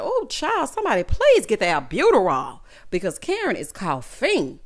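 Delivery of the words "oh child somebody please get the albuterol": hammed-up urgent plea; mock panic. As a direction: call out for help in mock alarm. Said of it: "I said".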